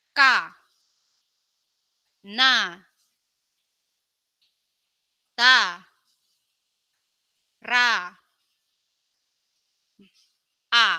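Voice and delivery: each syllable called out loud with long pauses; syllable drill. Shown as a demonstration. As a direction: call out syllables for class to repeat. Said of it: "Mari kita baca ya".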